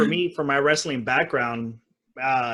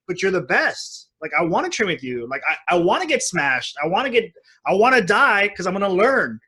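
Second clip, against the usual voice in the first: eager plea; 4 semitones higher than usual. Retold or imitated. Eager wrestler begging to be smashed.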